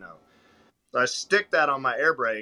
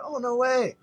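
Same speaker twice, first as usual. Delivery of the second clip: put-on high, delighted little-girl squeal; a little girl answering a trucker's compliment, high and delighted; 12 semitones higher, 3 dB louder than usual. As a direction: play a thrilled eight-year-old. Little girl voiced in story.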